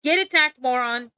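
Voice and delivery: loud playful taunt; mock taunt. Streamer taunts imagined art victims, loud playful jeer. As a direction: jeer it like a cartoon bully.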